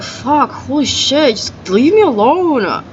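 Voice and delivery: slow, drawn-out fed-up plea; slow weary groan of a plea; exasperated plea. Retold or imitated. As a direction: drag it out like you're worn down. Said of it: "I'm like".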